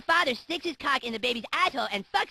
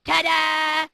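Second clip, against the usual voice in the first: ta-da flourish; 4 semitones higher, 5 dB louder than usual. Retold or imitated. Family finishing their act.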